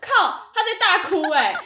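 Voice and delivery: high, loud words broken by real laughter; laughing disbelief. Real, not acted. Telling a friend the coworker sobbed, laughing loudly. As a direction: laugh out the shock of it.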